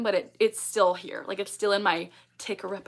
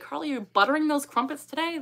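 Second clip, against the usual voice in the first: teasing coworkers; 6 semitones higher than usual. Retold or imitated. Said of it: "They'd be like".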